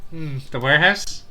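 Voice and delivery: ordinary talk, nothing marked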